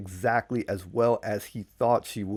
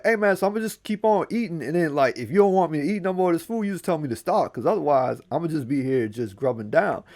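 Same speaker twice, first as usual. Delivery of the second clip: put-on calling out to the old man, high and quick; Anansi calling out; 5 semitones higher, faster than usual. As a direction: shout up cheekily while eating. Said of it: "He yelled out the windows like".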